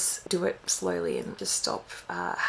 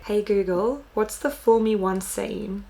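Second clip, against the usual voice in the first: repeating to voice assistant. Real, not acted. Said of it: "let me look it up".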